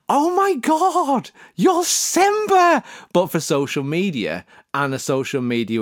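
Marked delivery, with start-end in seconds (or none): 0.1-2.8 gasp, then high, slow, awed; mock amazement. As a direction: act stunned by the revelation. Gasping amazement.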